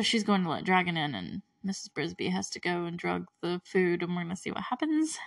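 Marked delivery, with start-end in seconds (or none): 4.0-5.2 whispered teaser. Real, not acted. Teasing what comes next.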